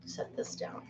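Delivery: whispered aside to herself; unvoiced murmur while setting something down. Real, not acted. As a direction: breathe it out under her breath.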